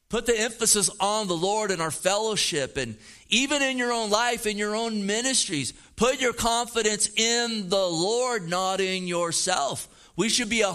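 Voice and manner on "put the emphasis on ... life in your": repeats the line through a chuckle; laughing. Shown as a demonstration. Pastor repeats his point to the congregation, laughing. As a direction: say it again with a laugh in the voice.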